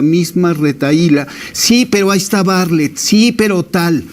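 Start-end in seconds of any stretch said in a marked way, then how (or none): 1.5-4.0 mildly mock a repeated refrain, pitched higher; mocking parroting. Debater throws opponent's repeated retahíla back at her, mildly mocking. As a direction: lightly mimic an opponent's stock comeback in a higher pitch. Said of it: "repites una y otra vez la misma retahíla".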